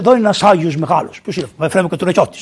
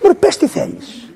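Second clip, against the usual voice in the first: higher, slow, pleading; mock exasperated husband; exasperated plea; 11 semitones higher, slower than usual. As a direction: beg her to just say it.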